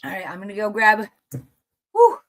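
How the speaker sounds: breathless, gasping, rushing words; out of breath. Real, not acted. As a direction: still winded, talking between breaths. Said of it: "I gotta catch my breath".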